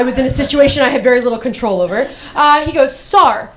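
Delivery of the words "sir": Australian doctor impression; imitated Australian accent. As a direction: put on an Australian accent, measured and clinical. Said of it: "he was Australian".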